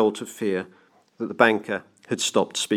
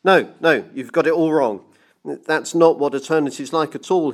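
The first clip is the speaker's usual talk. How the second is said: raised, emotional protest; dark with emotion; 6 semitones higher, 3 dB louder than usual. A narrator's reading. Clockmaker on his knees correcting the banker, emotional. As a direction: insist with feeling, pitch lifted. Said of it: "his voice now dark with emotion".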